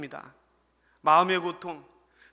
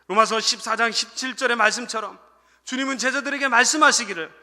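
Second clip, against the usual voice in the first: loud, raised sermon delivery; forceful preaching; 4 semitones higher, 7 dB louder than usual. Real, not acted. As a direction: proclaim the scripture to the congregation. Preaches, quoting scripture with force. (힘주어 선포하는 설교조로)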